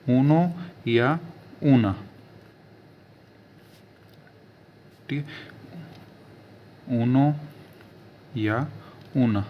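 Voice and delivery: ऊनो या ऊना, oo-no and oo-na; slow, careful ऊनो या ऊना; teacher repeating ऊनो या ऊना; Italian numbers. Shown as a demonstration. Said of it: "एक को बोला जाता है ऊनो".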